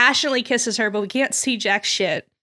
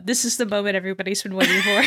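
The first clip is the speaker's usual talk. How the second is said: deadpan; 3 semitones lower, much faster than usual. Retold or imitated. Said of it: "in the most deadpan voice imaginable".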